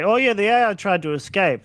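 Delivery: mock casual report. Imagined developer reporting AI escape, mock breezy. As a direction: toss off alarming news lightly.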